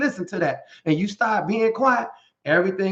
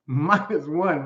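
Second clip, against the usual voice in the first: laughing repeat; 2 semitones lower, much slower than usual. Real, not acted.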